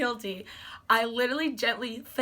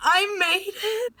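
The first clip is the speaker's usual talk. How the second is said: slow, high, loud triumph; ecstatic squeal; 9 semitones higher, 6 dB louder, much slower than usual. Retold or imitated. Fan retelling her moment with the star, ecstatic squeal. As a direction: squeal it out, stretching the words.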